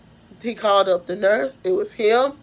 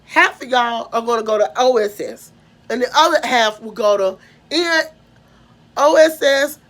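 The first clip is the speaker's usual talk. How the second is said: retold stern warning; 3 semitones higher, 3 dB louder than usual. Official warns the boys of punishment.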